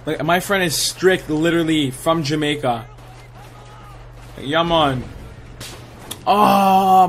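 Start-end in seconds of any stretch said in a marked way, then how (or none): 4.4-5.0 a light try at a Jamaican "Yeah, man" with "man" as "mɑn"; Jamaican accent attempt. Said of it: "Like" a singer's "accent ... I could try".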